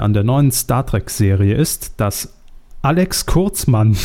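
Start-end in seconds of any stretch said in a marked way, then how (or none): 2.8-4.0 breaking into laughter. Real, not acted. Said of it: "Ja, machen Sie weiter".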